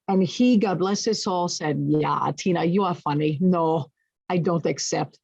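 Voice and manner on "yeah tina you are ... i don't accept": lightly imitated German accent; bad German accent. Boss refusing her resignation, light mock German accent. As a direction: attempt a clumsy German accent. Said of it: "That's a horrible German accent".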